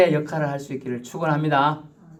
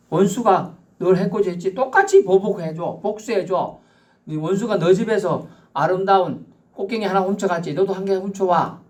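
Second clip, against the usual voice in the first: higher, insistent urging to get even; egging on revenge; 5 semitones higher than usual. Acted. Preacher voicing the old law urging revenge, higher and pushy. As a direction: goad someone into payback.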